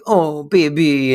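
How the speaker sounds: slow, drawn-out cooing; mock seduction.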